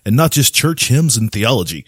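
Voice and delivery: lightly voiced news anchor read; newscaster voice. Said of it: "I'm gonna read this in my newscaster voice".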